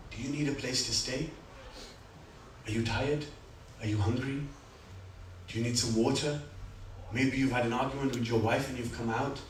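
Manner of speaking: the Imam kindly offering the stranger rest and water, softly; gentle offer. Acted. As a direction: coax a tired stranger gently, like a host.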